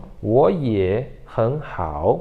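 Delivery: 我也很好 slowly, grouped as 我也 and 很好; tone change demo. Shown as a demonstration. Teacher shows how to say it, 我也很好 in slow tone pairs. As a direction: draw out each pair with rising 我 and 很. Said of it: "desse jeito".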